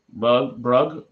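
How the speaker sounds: "Brug, Brug" sounded out, testing the name twice; trying out pronunciations. Real, not acted. Reading a cast list, sounding out an unfamiliar name. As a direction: feel your way through "Brug". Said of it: "I said what I thought it was pronounced as".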